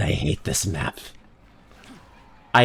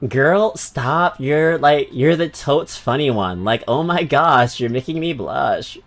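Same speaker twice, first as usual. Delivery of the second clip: put-on valley girl voice; 3 semitones higher, slower than usual. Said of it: "the valley girl".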